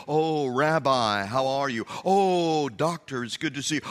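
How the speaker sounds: hammed-up admirers buttering up a rabbi; mock fawning greeting. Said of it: "and say".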